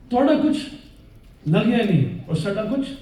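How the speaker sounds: put-on Sikh convert's Punjabi line in a Punjabi accent. Preacher repeating the old Sikh convert's words in Punjabi to the brothers, in a Punjabi accent. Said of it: "Is that my accent okay?".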